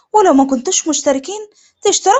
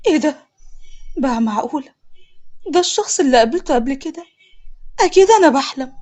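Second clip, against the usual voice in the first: surprised disbelief. Acted. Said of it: "سندس بمفاجأة".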